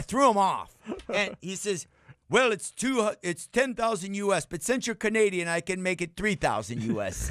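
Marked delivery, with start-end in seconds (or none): 2.3-7.2 high, wheedling merchant pitch; haggling seller. Retold or imitated. Seller offering a Canadian discount, high and sly. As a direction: offer the deal like a sly salesman.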